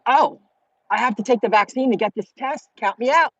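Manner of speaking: mock indignant refusal. Refusing the vaccine requirement to doctor.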